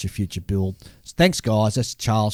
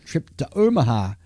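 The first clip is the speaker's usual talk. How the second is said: letter read aloud; 3 semitones higher than usual. Acted. Reads a listener letter aloud.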